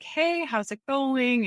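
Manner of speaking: investor texting. Retold or imitated. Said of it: "He's like".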